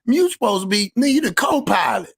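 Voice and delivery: mock scolding dad. Father telling his son to sit up front, scolding. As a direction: scold your son, half-joking. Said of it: "I told my son".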